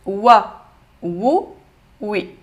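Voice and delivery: short separate "Wa, Wu, oui"; lettre vocalisée. Shown as a demonstration. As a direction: give "Wa, Wu, oui" as three brief syllables. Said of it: "en fonction de la vocalisation". (« Wa, Wu, oui », syllabes brèves et détachées)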